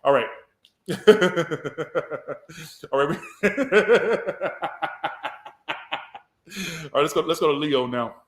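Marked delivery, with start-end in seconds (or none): 0.9-2.9 villain laugh. Acted. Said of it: "I got a villain laugh". 3.2-6.2 villain laugh. Acted. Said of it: "I got a villain laugh".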